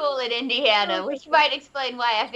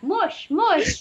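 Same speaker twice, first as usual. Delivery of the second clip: high, playful husky-driving calls; mock sled driver; 5 semitones higher than usual. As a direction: call out to sled dogs, breaking into laughter. Imitates someone driving a husky pack.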